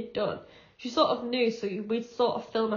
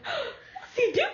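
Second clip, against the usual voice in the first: put-on much higher, slow, laughing child voice; high-pitched child voice; 12 semitones higher, much slower than usual. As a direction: squeak it out slowly like an excited toddler. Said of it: "puts on this high-pitched voice".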